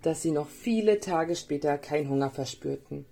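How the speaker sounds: put-on lively storytelling for small children; story narration. A narrator's reading. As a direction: read a gentle tale with playful lifts on key words. (Märchen für Kinder vorlesen)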